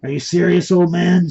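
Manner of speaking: mocking. A narrator's reading. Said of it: "started to laugh".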